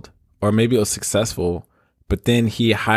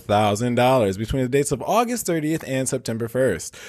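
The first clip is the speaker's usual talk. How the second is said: news anchor voice; 3 semitones higher than usual. Pretend. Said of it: "give my best news anchor voice".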